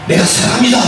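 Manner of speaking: a touch of eager conviction; 열정적인 고백. Acted. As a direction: declare it firmly, with mild fervor. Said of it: "그 열정을 봐서는". (약간 힘주어 열정적으로 고백)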